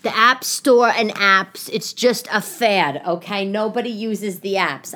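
slow, emphatic know-it-all boss; dismissive boss. Retold or imitated. Boss writing off apps to an employee, dismissive. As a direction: lay it down word by word, slowly. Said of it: "he said to me, he's like".

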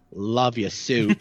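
low, very slow mock parting line; movie villain quote. Prankster to someone walking away, low deadpan movie mimicry. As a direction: draw it out low, like a lightly voiced movie villain. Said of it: "I'll be like".

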